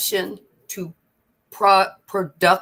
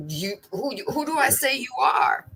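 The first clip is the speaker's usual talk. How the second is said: Abraham pleading. Retold or imitated. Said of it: "and said".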